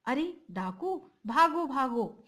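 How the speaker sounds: frightened shout to run; panicked. Acted. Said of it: "घबराए स्वर में".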